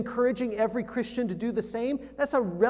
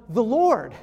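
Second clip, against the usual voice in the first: "The Lord" said much louder, falling; stress on THE LORD; 8 dB louder than usual. Shown as a demonstration. Preacher driving home the key word, loud stress on Lord. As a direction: punch "The Lord" hard. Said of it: "The emphasis is on".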